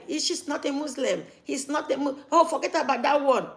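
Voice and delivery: sneering at someone who left the faith, mock-dismissive; mocking dismissal. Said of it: "will be like".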